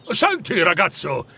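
lightly conspiratorial call for attention. Acted. Scrooge calling the boy over, a touch conspiratorial. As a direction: draw the listener into a little plot. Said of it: "aggiunse con aria complice".

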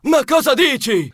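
cousin squawking impatiently; comic character voice, squawked with impatience. A narrator's reading. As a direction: cut him off impatiently. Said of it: "Strillò lui impaziente".

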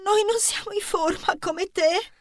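soft, winded complaint; puffing. Acted. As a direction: say it out of breath from the race. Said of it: "sbuffò Angelina".

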